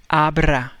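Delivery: abra with the r rolled. Shown as a demonstration. Teacher demonstrating abra with rolled r. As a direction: roll the r in abra. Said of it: "you roll your tongue".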